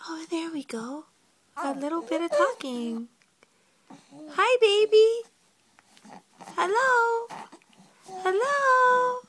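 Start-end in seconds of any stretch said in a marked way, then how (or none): 0.1-1.0 whisper. Real, not acted. Baby starts cooing. 4.3-9.2 high, loud sing-song hellos. Real, not acted. Mother coaxing her baby to talk, high and loud.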